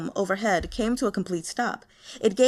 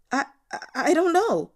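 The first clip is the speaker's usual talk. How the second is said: high, loud stammering yelp; frightened yelp; 6 semitones higher, 4 dB louder than usual. Acted. Timid intern yelping to his furious boss, scared stammer. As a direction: stutter it out in a panic. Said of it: "Guo Changcheng yelped".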